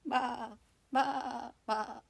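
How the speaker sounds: short bleating baas; sheep bleat. Acted. Lamb answering the turkey with a bleat.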